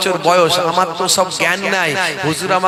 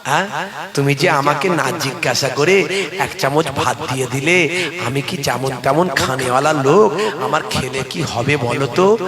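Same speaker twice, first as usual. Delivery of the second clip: a hint of a gentle cleric; 4 semitones lower than usual. Huzur gently scolding the boy over wasted rice. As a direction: chide him kindly, like a father.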